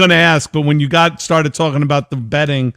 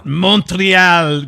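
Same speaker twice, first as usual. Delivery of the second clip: high, loud echo of the hail; playful call-out; 5 semitones higher, 5 dB louder than usual. Pretend. Host echoing the greeting to Montreal viewers, loud showy call. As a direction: sing out the city name to the crowd.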